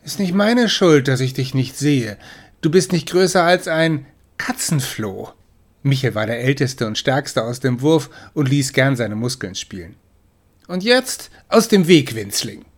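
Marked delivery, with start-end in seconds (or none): 0.0-5.3 teasing big brother. Acted. 10.7-12.6 higher, louder shove-off order; bossy command. Acted. Big brother ordering his sister out of the way, loudly. Brother shoving her aside.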